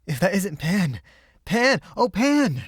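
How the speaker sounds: high, loud eager call. A narrator's reading. Boy spotting his friend down a side street, calling out loud and high. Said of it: "he shouted".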